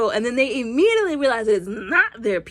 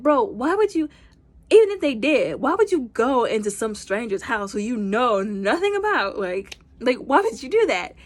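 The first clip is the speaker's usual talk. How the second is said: higher, louder disbelieving questions; incredulous; 4 semitones higher, 4 dB louder than usual. Retold or imitated. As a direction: question him as if it's absurd. Incredulous at Peter's logic.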